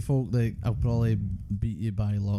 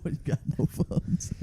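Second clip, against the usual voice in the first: whispered punchline; 4 semitones higher, 5 dB quieter, slower than usual. Retold or imitated. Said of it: "Weak kids".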